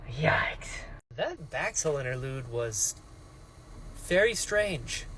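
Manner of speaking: hushed unvoiced whisper; soft whispered yikes. Real, not acted. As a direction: whisper it under your breath. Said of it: "whispered aside".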